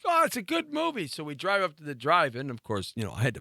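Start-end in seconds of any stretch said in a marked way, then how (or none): 0.0-1.1 higher-pitched mock girlfriend voice; airy imitation of a girlfriend; imitated girl. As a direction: lightly put on a high girly coaxing voice. Quotes the girl's answer.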